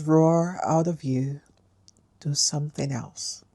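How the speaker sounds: measured poem recital with long pauses between lines; deliberate, spaced-out verse with punched key words; poem reading. Acted. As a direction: read it like a poem, letting each line land. Reads a poem aloud.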